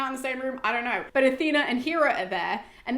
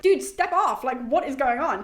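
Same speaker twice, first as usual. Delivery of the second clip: raised, louder opening, then easing off; mock exasperation; 3 dB louder than usual. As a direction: act out warning someone to back off. Apollo exasperated at third advance.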